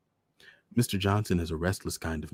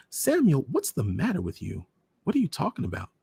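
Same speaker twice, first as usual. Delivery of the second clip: high, sharp startled call of a name; 7 semitones higher, 4 dB louder than usual. A narrator's reading. Mother cutting her husband off in shock. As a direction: stop him short in alarm.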